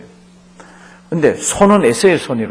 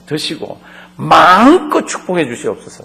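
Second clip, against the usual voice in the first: pleading son; 4 dB louder than usual. Acted. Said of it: "마음껏이라는 게".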